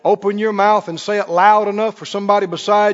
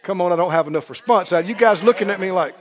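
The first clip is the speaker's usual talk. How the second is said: mock interrogator; 7 semitones higher, 5 dB louder than usual. Scene: preacher plays an accuser questioning the congregation, shouting. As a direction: bark it at them like a persecutor.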